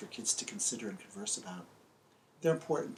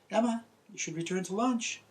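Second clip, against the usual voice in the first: higher, a little louder call from a dad; a father calling his girl in; lightly voiced dad calling out; daddy's voice; 9 semitones higher, 3 dB louder than usual. Daddy calls Emma home.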